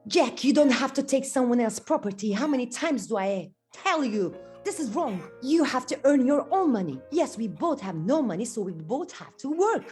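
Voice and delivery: a touch of a mother telling her son off; angry mother. Acted. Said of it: "His mother is very angry".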